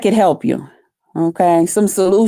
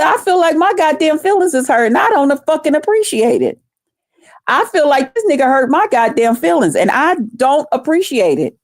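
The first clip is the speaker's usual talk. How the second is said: higher-pitched aggrieved venting; retold indignation; 6 semitones higher than usual. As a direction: replay your own hurt complaint. Retells venting about hurt feelings.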